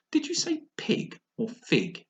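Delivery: slow, high, drawn-out voice; sly cat. Acted. The cat asking Alice, slow and sly. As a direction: tease her with it slowly.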